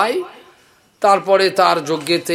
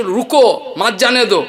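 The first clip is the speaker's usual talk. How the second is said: intended phrase; 4 semitones higher, 4 dB louder than usual. Shown as a demonstration. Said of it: "ওর বলার উদ্দেশ্য ছিল".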